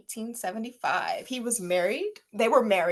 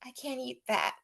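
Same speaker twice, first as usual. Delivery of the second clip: mock dieting Kourtney; 2 semitones higher, 9 dB quieter than usual. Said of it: "look at something like".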